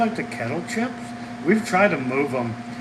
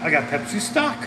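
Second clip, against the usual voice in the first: voice cracking; 3 semitones higher than usual. Real, not acted. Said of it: "My voice is cracking".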